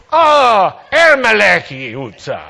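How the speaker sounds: imitated loud, high "Ah" of realization; mock eureka cry, easing into the street name; taxi driver's sudden recognition. Taxi driver finally understands the passengers' street name, imitated loud recognition. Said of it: "finally they go like this".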